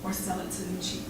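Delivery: rhythmic, intense slam poetry delivery; charged spoken-word recital; spoken word poem. Acted. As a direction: perform it like a slam poet on stage.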